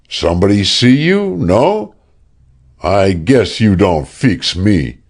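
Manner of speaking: French-Canadian lumberjack, taunting; French-Canadian accent. Acted. Rondeau taunting Sexton in a French-Canadian accent.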